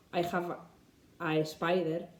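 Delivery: "spider" said as "espider", Spanish learner mistake; wrong version, lightly Spanish accent. Shown as a demonstration. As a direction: imitate an E before "spider".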